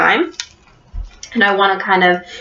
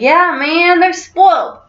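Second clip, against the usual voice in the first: hippie voice; 7 semitones higher than usual. Shown as a demonstration. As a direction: talk like a chill hippie. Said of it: "Rudolph's kinda talking like, like a hippie".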